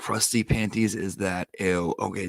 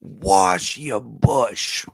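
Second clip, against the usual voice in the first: defiant fan heckle; 6 dB louder, much slower than usual. Retold or imitated. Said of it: "Like, she didn't care".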